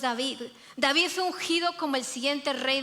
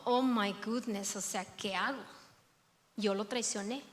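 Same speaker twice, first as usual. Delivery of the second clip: hushed ashamed Peter; 5 semitones lower, 6 dB quieter than usual. Acted. Peter ashamed before Jesus.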